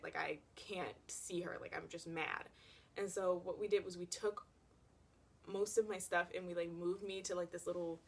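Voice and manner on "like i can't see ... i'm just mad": whispered. Retold or imitated. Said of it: "I'm like".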